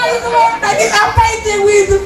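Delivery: very high, fast and scoffing; mocking squeal. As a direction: scoff at the silly crying. Mocking remark on such crying. (mengejek, tinggi dan cepat)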